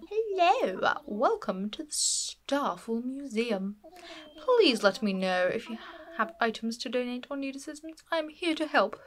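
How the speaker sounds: lightly posh museum owl greeting; a hint of a posh curator welcoming visitors; posh Blathers voice. Player voicing Blathers welcoming visitors, lightly posh. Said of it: "My posh voice is great".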